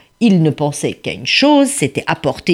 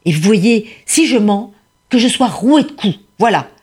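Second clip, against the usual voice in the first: imploration; 5 semitones higher than usual. Acted. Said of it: "Il implora tout le monde".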